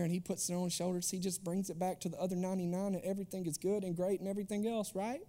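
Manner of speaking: soft, sugary storybook reading of the shepherd; syrupy scripture voice. Pretend. Youth pastor mocking how we read scripture, in a soft sweet voice. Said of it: "that's how I read scripture in that voice right there".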